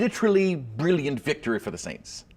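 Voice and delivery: mock British accent. British catchphrase joke, laughing.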